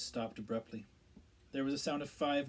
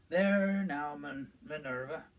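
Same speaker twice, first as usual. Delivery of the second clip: kindly; 2 semitones higher, 7 dB louder, slower than usual. A narrator's reading. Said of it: "said Fudge kindly".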